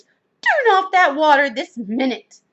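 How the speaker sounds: loud, slow, emphatic command; shouted order. A narrator's reading. Missus Rogers orders water off, shouting. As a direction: order them sternly, at volume. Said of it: "shouted Missus Rogers".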